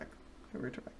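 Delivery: mock hypnotist voice fading to a whisper. Shown as a demonstration. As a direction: drop to a hush, then a whisper. Guided zone-out bit, fading.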